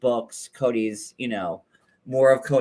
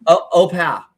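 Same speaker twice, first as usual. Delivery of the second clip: "Au, au pair" in a cackly leprechaun voice; evil leprechaun voice; 3 semitones higher, 7 dB louder than usual. Shown as a demonstration. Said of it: "Now I sound like an evil leprechaun".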